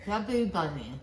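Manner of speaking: mumbled through stuffed cheeks; cheeks stuffed full. Real, not acted. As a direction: mouth crammed full. Chubby bunny with mouth full.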